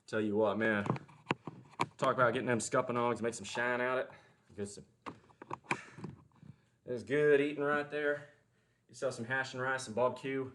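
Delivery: Southern accent like with local friends down home; thick Southern accent. Shown as a demonstration. Showing viewers how he talks with local friends, thick Southern accent. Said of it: "the Southern accent come out thick".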